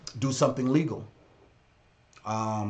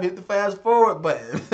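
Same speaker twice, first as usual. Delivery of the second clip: higher pitch, breaking into a laugh; 6 semitones higher, 3 dB louder than usual. Real, not acted. Streamer teasing replay viewers about skipping, laughing. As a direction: tease them and crack up.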